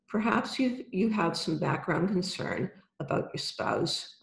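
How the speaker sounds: calm guided visualization, unhurried; right in your ear. Acted. Guided visualization with eyes closed.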